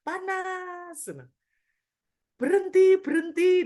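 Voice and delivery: very high, loud scream; woman possessed crying out for the worship to stop. Retold or imitated. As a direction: shriek it like something is burning you. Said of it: "dia bilang gitu".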